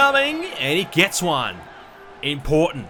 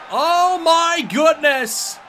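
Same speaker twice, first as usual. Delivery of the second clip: wrestling commentator; 10 semitones higher, much slower than usual. Real, not acted. Reaction to the moonsault.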